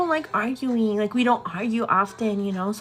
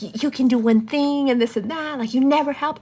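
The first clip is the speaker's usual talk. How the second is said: higher-pitched mimicked accusation; retold bickering; 5 semitones higher, 4 dB louder than usual. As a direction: act out a partner's nagging complaint. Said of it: "getting real ugly".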